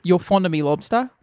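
light Australian accent on the line. Shown as a demonstration. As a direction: say it in a mild Aussie accent. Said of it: "as an Australian?".

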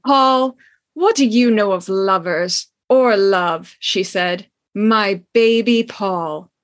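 reading a steamy novel scene aloud, lightly dramatic; story reading. Acted. Host reads a racy book scene to listeners, lightly dramatic. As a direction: give the old romance its due, savouring each line.

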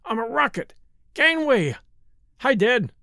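put-on high, boisterous child at play; excited little boy. A narrator's reading. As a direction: call out like a boy zooming through the house. Small son charges in playing rocket.

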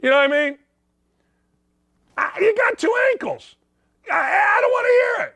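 high shouting, almost a cry; high yelling coach. Retold or imitated. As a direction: yell it at the kid, cracking up high. Shouting at injured player.

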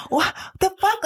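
high-pitched retold disbelief; mock incredulous. Wife baffled by husband's border act, mock incredulous. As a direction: pitch leaps up, baffled at him.

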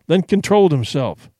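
ordinary delivery

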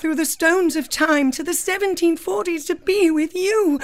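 hammed-up romantic heroine; melodramatic Claire. Claire offers herself to her Scottish warrior, melodramatic. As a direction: declare your love melodramatically. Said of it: "we wrote this sketch based on Outlander".

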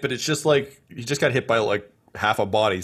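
ordinary talk

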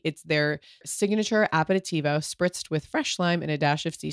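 upbeat sponsor read, easy and chatty. Acted. Host pitches Ghia to listeners, breezy ad read. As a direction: sell the drink like a friend's tip.

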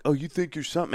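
high-pitched imitation of drunk hecklers; mock drunk taunt. Drunk guys taunt the fighter stepping in, mocking imitation. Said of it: "the guys are drunk".

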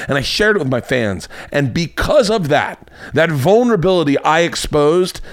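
mock pompous boasting; joke self-important. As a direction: puff up like a self-important host. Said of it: "I'm doing a joke per-, version of myself".

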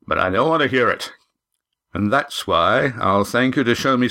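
blunt tavern keeper demanding payment; gruff suspicious innkeeper. Acted. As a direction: play the wary innkeeper laying down terms. Narrator voices the suspicious innkeeper.

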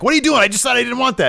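very high, loud mock outrage; imitated incredulous complaint; indignant protest. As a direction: act out exasperated disbelief, pitch shooting up. Retold indignant reaction to second chair.

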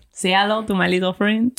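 amateurish attempt at a French accent; bad French accent. Shown as a demonstration. Host showing the accent she remembered, bad French accent. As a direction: have a clumsy go at a French accent. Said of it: "I'm not good at French accents".

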